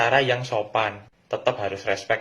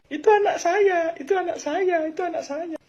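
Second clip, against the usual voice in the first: bragging parent. Acted.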